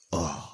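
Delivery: low, soft mock groan of misery; forlorn groan. Imitating monks expected to be miserable, forlorn groan. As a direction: groan "ugh" as if weighed down.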